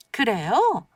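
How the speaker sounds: slow skeptical drawl; doubtful, dragged-out retort; eye roll. Acted. Mother-in-law's skeptical retort.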